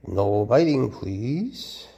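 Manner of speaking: stern and loud on biting, falling hard; a sharp no to a snapping snake; firm warning. Real, not acted. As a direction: warn the snake off firmly. Firmly tells snake not to bite.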